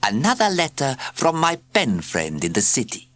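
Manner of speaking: high, mysterious cat purr. A narrator's reading. Cat murmurs to the children about her pen friend, purring. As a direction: purr it like a secret. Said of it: "she murmured in a mysterious, purring voice".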